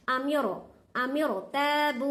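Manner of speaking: "अम्योरो" with a thick, full ra; heavy ra. Shown as a demonstration. Teacher showing pupils the heavy ra reading. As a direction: read "अम्योरो तबु" with a heavy ra. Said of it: "मोटा पढ़ना".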